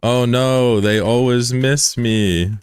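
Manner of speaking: drawn-out fake pout, "Oh no" lifted; slow, pitiful guilt-trip voice; mock sorrowful plea. Shown as a demonstration. Streamer teaching a kid to guilt-trip for subs, slow mock pout. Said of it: "You gotta be like".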